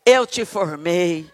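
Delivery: slow, grave voice of God; lightly voiced God, speaking slowly. Preacher voices God calling Jeremiah, slow and grave. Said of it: "Deus disse pra Jeremias".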